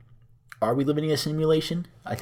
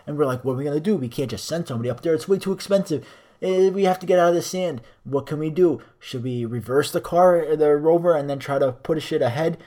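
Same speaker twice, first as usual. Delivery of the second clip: boring rover guy. Retold or imitated. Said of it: "most boring shit I've ever heard".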